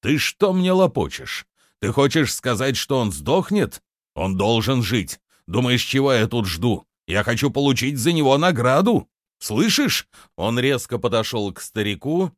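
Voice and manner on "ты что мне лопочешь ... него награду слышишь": rising, indignant questions; agitated demand. Acted. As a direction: press the listener for an answer, pitch climbing. Angry bandit confronts the old man. (раздражённый напор)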